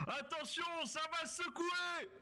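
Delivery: slow, shouted warning. Acted. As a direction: call out the danger slowly. Commandant annonce un bombardement. (avertissement crié)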